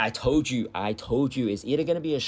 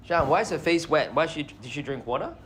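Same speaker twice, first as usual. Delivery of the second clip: puppy talk; 6 semitones higher than usual. Real, not acted.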